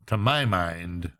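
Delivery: put-on slow, cheerful old judge; cheerful magistrate. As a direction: savour the opening words. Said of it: "observed the chairman ... cheerfully".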